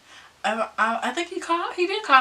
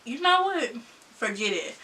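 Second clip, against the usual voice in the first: softer, dismissive brush-off; fed up; 8 dB quieter than usual. Retold or imitated. To boyfriend after school, soft fed-up dismissal. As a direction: drop it like you're done with him. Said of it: "I was like".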